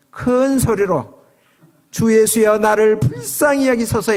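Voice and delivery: plea called out high, drawn and chant-like; crying out loudly. Acted. Blind beggar calls to Jesus for mercy, crying out. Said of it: "이렇게 큰 소리 쳐도".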